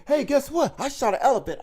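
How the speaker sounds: high, loud giddy brag; hammed-up excited hunter bragging to the speaker; mock excited hunter. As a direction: imitate a hunter bursting with pride. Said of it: "he's so excited saying".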